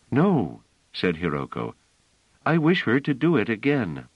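a hint of a tender musician; kindly woman. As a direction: answer a child kindly. Musician insists.

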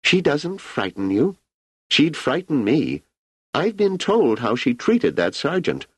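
put-on an ageing emperor musing easily to an old friend; Emperor Cleon.

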